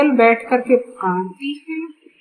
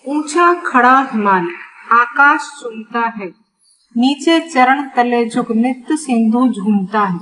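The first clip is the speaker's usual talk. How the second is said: measured verse reading with small pauses; poem recitation. Acted. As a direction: recite the lines of a Hindi poem.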